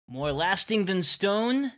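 proud saying. Acted. Village saying, proud and slow.

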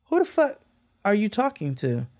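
high, sharp indignant snap; indignant retort. Retold or imitated. To the yelling security guard, high indignant snap. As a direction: take offence at being yelled at. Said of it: "I said".

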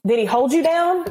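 high, mock-delicate question; careful questioning. Officer going through all the questions, careful. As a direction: raise the pitch, gently probing.

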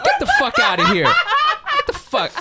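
hammed-up shouting Asian mom, accent thick; angry Asian mom accent. Host voicing an angry Asian mom throwing someone out, in a loud exaggerated accent. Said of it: "She'd be like".

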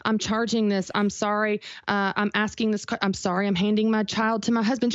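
a hint of an over-apologetic woman; mock apologetic woman. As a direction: lightly mimic someone who says sorry for everything. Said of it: "we just apologize all the time".

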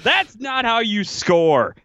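high, slow, drawn-out complaint; mock exasperation. Fan quoting his text about Schmaltz, exasperated. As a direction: draw out each word in high-pitched exasperation.

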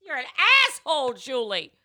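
laughing while insulting; cracking up mid-insult. Real, not acted.

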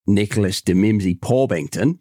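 put-on Australian accent; badly faked Australian twang; Aussie accent. Shown as a demonstration. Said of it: "an Aussie accent".

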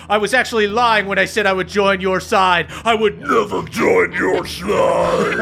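booming heroic wrestler promo; babyface wrestler. Acted. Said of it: "just to hear that pro wrestler voice".

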